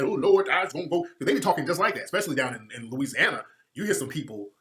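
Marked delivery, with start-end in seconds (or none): 0.0-1.1 mock Southern drawl. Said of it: "They don't never have them talking that".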